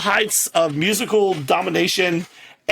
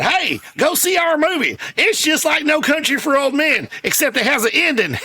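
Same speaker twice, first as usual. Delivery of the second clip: mock plug of his own movie; a hint of Larry the Cable Guy; Larry the Cable Guy impression; 5 semitones higher than usual. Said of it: "And he said".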